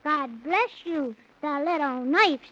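put-on earnest child recitation; boy recites his only song; poem recital. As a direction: recite the verse with care. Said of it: "I only know one song".

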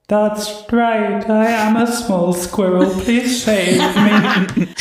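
high squeaky little squirrel voice; tiny squirrel voice. Acted. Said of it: "you hear the crying go".

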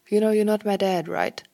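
called out loud and teasing. A narrator's reading. Louis calling after Liam leaving, loud. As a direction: call it across the flat, loud and mocking. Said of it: "he called".

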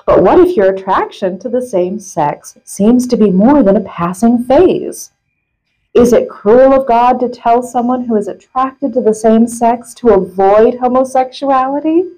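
measured reading with punched key words; article read-aloud. Acted. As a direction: read a printed article out with deliberate emphasis. Reads article aloud to co-host.

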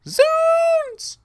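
high, drawn-out comic shout; imitating the original's big piercing yell; very loud yell. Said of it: "that driver actually yells very loudly".

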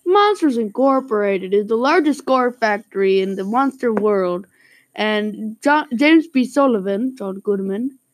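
put-on narrating with a Canadian accent; put-on Canadian accent, storyteller tone.

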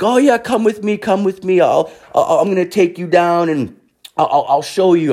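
high, eager imitated dealer; stammering, high-voiced hustler impression; beach hustler. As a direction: coax them along in a high put-on voice. Beach dealer luring customer along.

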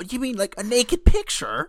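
high, loud shocked question; a hammed-up scandalized yelp; mock shock.

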